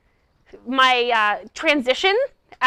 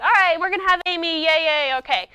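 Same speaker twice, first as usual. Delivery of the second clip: casual intro; 3 semitones higher than usual. Retold or imitated. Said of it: "He's just like".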